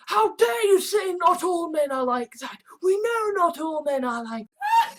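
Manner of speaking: laughing, hammed-up indignant cry; mocking outrage. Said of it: "as radical feminists claiming".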